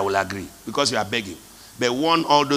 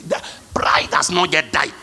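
hushed whisper. Real, not acted. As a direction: lean in and breathe it. Whispered point in sermon.

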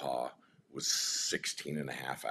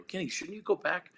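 retold yelling. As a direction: imitate yelling over a noisy stage, voice way up. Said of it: "we're kinda yelling".

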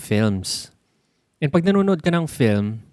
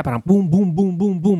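higher-pitched string of boom sounds; rapid-cut booms; 6 semitones higher than usual. Shown as a demonstration. Film fan showing Hollywood's many cuts, rapid booms. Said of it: "ang daming cut".

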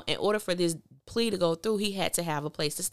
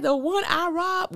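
high, slow disbelieving replay of the line; incredulous quote; 12 semitones higher, 4 dB louder than usual. Retold or imitated. Repeating Q's line to viewers in disbelief. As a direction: stretch it out in mock disbelief. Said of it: "This dude said".

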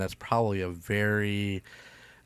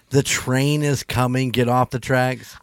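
raised, drawn-out warning; mock yell; 3 semitones higher, 6 dB louder, slower than usual. Co-host suggests the guard's warning, slow mock yell. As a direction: call it out slowly and loudly, half in earnest. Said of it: "wouldn't you yell".

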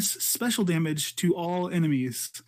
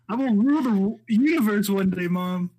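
megalomaniac rant; 2 semitones higher, 4 dB louder than usual. Pretend. Emo Bastila joke.

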